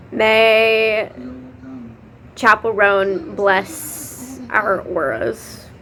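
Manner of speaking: slow solemn blessing; slow, mock-reverent blessing; mock benediction. Real, not acted. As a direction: bless them like a playful priestess.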